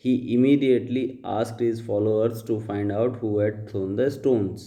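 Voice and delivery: slow, deliberate read-aloud of the paragraph; slow dictation reading. Shown as a demonstration. Teacher reading the paragraph aloud to students, slow and deliberate. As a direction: read each word out slowly for the class.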